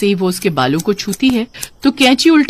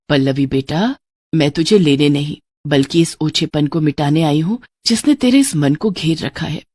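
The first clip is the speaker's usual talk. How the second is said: lightly voiced gentle mother's spirit, a little lower; माँ की आत्मा; 3 semitones lower than usual. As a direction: console your daughter as her late mother. (ममता भरी, शांत आवाज़)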